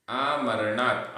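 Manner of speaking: आमरणात् ending on a half त, no vowel after it; distinct आमरणात् with a clipped final त्; pronunciation demo. Shown as a demonstration. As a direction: say आमरणात् firmly, stopping on the bare t. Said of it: "आधेता तक".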